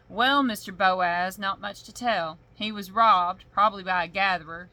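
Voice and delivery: a lazy small-town lawman, unbothered; thick-accented sheriff. Acted. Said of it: "my accent got all thick".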